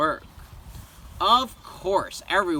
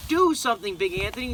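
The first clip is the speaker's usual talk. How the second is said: higher, urgent plea; crowd shouting; 5 semitones higher, faster than usual. Acted. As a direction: beg him to fix it, urgently. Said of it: "they shouted".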